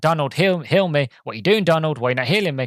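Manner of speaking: exasperated mock shout for help. Player retelling shouts at Donald for healing, mock shouting. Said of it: "I'm shouting at, at Donald".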